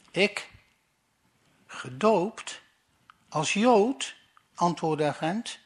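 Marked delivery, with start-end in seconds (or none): 0.1-4.2 incredulous. Acted. Agent incredulous reply.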